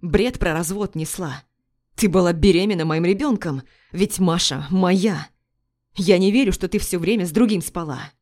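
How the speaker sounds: hurt husband pressing hard; angry accusation. Acted. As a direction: confront her with disbelief.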